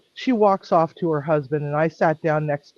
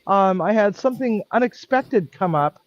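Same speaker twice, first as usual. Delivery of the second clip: raised, pointed apology so others overhear; rather loudly; 4 semitones higher than usual. Retold or imitated. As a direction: make sure the couple hears every word. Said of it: "I said rather loudly".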